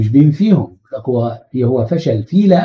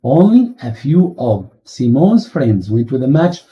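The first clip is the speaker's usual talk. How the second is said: the whole sentence read very slowly, each word set apart; slow dictation; much slower than usual. Shown as a demonstration. Teacher repeats the full answer slowly for students. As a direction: read it out slowly so the class can follow. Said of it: "يبقى نقول تاني".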